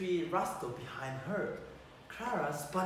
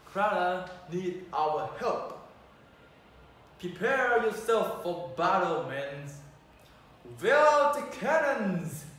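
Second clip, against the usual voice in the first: commanding call; 7 dB louder than usual. Acted. Prince rallies his toy soldiers for battle, loud and commanding.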